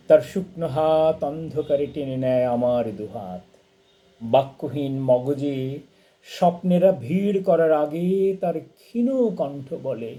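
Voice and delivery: expressive poetry reading, rising then settling; poem recitation. Acted. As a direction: recite a lullaby poem for a mother, line by line. Reads a translated poem aloud.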